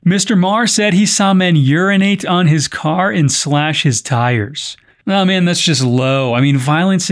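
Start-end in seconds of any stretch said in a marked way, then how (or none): 0.0-4.8 measured podcast news delivery; news script read with clear phrasing. Acted. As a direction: read it out as a news story, evenly projected. Reads the news story.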